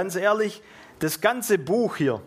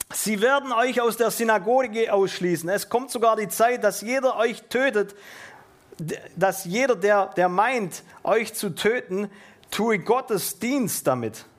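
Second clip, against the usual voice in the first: raised, declaimed Bible reading; scripture reading; 4 semitones higher than usual. Acted. Preacher reading Jesus' warning to his disciples, declaimed. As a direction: read the verse out to the congregation.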